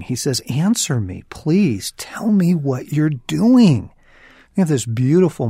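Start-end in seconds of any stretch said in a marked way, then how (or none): 0.5-3.9 rising, louder plea to God; pleading. Retold or imitated. Patch Adams pleading with God on the cliff, loud and high. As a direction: beg God to answer, building higher. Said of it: "And he's pleading".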